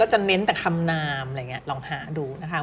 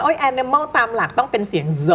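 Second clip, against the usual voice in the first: higher-pitched mock fault-finding; mock nitpicking teacher; 6 semitones higher than usual. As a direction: exclaim like a fussy teacher correcting an ending. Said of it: "คือครูจะไม่ติว".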